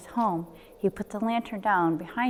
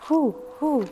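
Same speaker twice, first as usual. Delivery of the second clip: higher hooting wind; wind noise; 6 semitones higher than usual. A narrator's reading. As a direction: hoo like the night wind. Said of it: "the wind blew in the trees".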